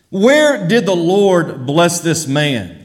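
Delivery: normal talking voice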